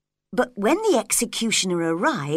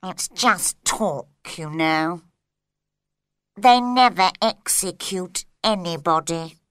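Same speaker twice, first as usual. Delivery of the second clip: slow, drowsy, lower voice; sleepy; 3 semitones lower than usual. A narrator's reading. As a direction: mumble it half asleep. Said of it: "said sleepily".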